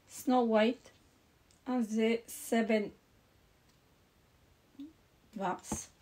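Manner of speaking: hesitant English title in a French accent; halting French-accented English, long pause before Dwarfs; unsure French-accented English. Real, not acted. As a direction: feel your way through the English with a French accent. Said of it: "Je sais pas comment ça se prononce".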